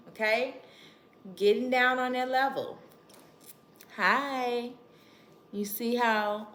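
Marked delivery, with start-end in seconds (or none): 4.0-4.7 put-on gentle greeting to a child. Shown as a demonstration. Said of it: "let me pretend that you're the child".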